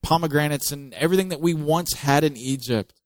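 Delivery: milk the self-pity; whining complaint. Retold or imitated. The Israelites complaining about Egypt's food, mock whine. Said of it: "they complain".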